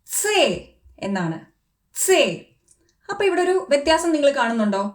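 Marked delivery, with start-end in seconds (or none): 0.1-2.5 സേ said slowly as tse; German letter name. Shown as a demonstration. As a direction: draw out സേ with a ts start. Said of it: "സി എന്നുള്ളത്". (German സേ, ts ശബ്ദത്തോടെ)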